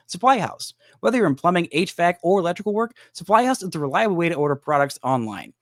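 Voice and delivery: upbeat sponsor read; a podcast host reading a sponsor spot. Acted.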